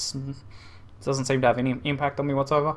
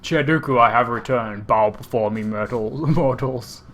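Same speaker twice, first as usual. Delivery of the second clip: megalomaniac rant; slower than usual. Acted. Addresses boss as overlord.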